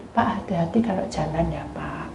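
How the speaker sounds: gently warn, afraid to say it; timid soft warning. Retold or imitated.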